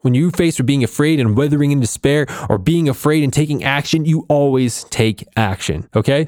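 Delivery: rally the viewers to take action; real burst of motivational fire; fired up. Real, not acted. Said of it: "Sorry, I got a little fired up there".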